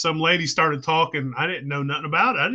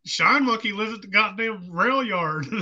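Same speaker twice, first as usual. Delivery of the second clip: retold amazed exclamation; 5 semitones higher than usual. Retold exclamation about the train.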